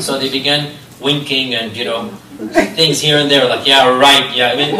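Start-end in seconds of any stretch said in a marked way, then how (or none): 3.7-4.5 mock dismissive yeah right; sarcastic scoff. Teacher voicing the jealous wives mocking Safiya, sarcastic. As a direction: toss it off like a jealous wife rolling her eyes. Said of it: "they sarcastic, mock".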